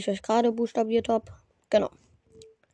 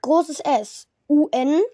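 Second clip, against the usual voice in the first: spelling it out slowly; slower than usual. Shown as a demonstration. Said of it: "Ich buchstabiere es noch einmal".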